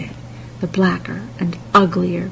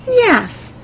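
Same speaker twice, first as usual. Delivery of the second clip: princess voice; 14 semitones higher, 4 dB louder than usual. A narrator's reading. Princess answers girl.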